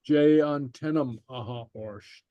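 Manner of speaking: "Jay on tenam aha orsht" slowly, word by word; slow, separated words. Shown as a demonstration. Teacher reads for learners to repeat, slow and separated. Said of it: "I'll read it slowly".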